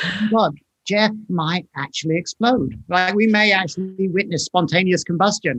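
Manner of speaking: usual speaking voice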